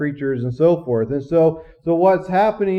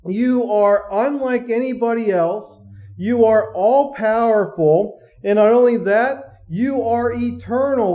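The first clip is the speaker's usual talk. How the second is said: fervent worship prayer; 5 semitones higher than usual. Acted. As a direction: lift it up like heavenly beings praising. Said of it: "these four living beings ... are saying".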